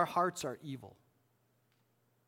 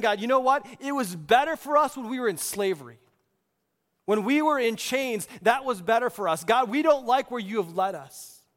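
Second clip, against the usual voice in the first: raised, loud voice of mock grievance; complaining; 4 semitones higher, 4 dB louder than usual. Israelites griping to God about leaving slavery, complaining. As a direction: grumble indignantly on behalf of the crowd. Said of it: "They're complaining to God".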